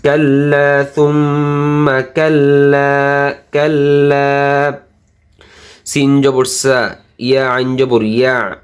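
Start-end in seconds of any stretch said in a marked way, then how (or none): 0.0-4.7 কাল্লা with its final vowel drawn out; one-alif stretch. Shown as a demonstration. Teacher shows one-alif length, stretched কাল্লা. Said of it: "এটার জন্য এক আলিফ টান হবে".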